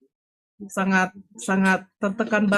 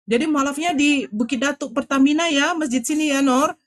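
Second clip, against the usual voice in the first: eager confirmation; 6 semitones higher than usual. Retold or imitated. Health centre head confirms the place.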